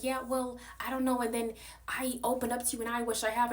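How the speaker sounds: high whiny mock voice; mocking the host. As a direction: whine it like the host. Voicing the host in argument.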